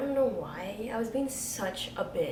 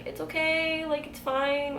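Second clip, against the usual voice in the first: lightly cooing, higher-pitched reassurance; gently concerned, pitched up; retold comforting; 6 semitones higher than usual. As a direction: soothe an upset friend in a high voice. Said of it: "trying to calm her down".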